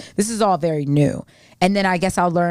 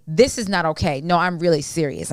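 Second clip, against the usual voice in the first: serious tone. Shown as a demonstration. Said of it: "I say it just like that".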